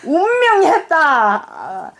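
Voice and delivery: slow Gyeongsang accent through laughter; Gyeongsang dialect. Shown as a demonstration. Mother retries the death notice while laughing, slow Gyeongsang dialect. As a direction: draw it out in Gyeongsang, amused. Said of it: "경상도 뭐라 한다고?".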